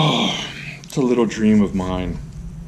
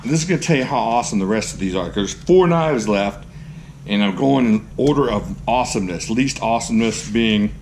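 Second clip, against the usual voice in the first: normal talking voice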